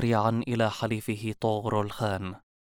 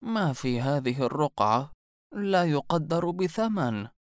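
put-on slow, drawn-out old seer; mysterious old woman; 4 semitones higher, slower than usual. A narrator's reading. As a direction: tempt him with the secret, slowly. (عجوز غامضة تتكلم ببطء)

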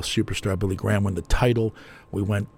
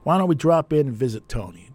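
talking to himself; 6 semitones higher than usual. Retold or imitated. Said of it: "I say to myself".

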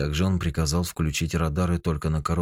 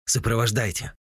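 eager shout; 6 semitones higher than usual. A narrator's reading. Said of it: "азартно крикнул Дани в трубку".

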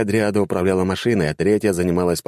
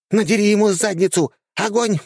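high squeaky order; commander ordering; 14 semitones higher than usual. A narrator's reading. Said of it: "приказала командир".

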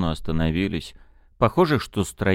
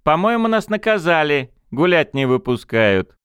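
amused; 8 semitones higher, 4 dB louder than usual. Acted. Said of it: "Чуть ли не в восторге".

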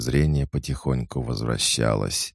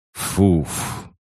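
big beast snort, higher and loud; thunderous snort; 6 semitones higher, 4 dB louder than usual. A narrator's reading. Giant beast snorting at the hero, a loud snort. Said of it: "животное громоподобно фыркнуло".

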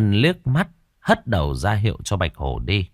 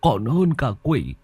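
forceful declaration; 8 semitones higher than usual. Acted. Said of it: "giọng nói hùng hồn".

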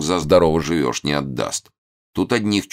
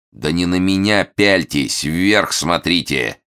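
sharp order; 4 semitones higher, 4 dB louder, slower than usual. Acted. Hermit ordering upward.

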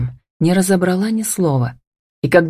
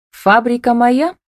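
slow, higher-pitched indignant question; mildly angry; 8 semitones higher than usual. A narrator's reading. Camilla checking who owns the factory, mildly indignant. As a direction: demand an answer with a touch of anger. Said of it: "гневно уточнила Камила".

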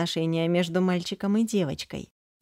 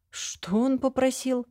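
plain reading voice

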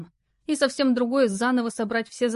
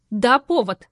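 louder, sharp retort; snapped retort; 3 semitones higher, 7 dB louder, slower than usual. A narrator's reading. Lara snapping back at the rude stranger, loud. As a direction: bite back hard. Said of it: "рявкнула девушка".

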